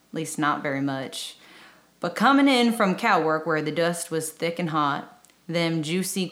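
put-on reading a poem in a light Southern accent; lightly Southern-accented cowboy poem reading. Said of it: "I try to do a Southern accent".

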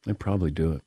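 muffled, quiet, through hot food; talking around a hot bite; mouth full of hot food. Real, not acted. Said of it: "Hot, hot, hot, hot".

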